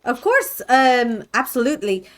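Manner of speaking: high, loud eager yes; eager villager. Acted. Villager eagerly agreeing to lead the party, loud and high. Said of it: "still talking in an accent".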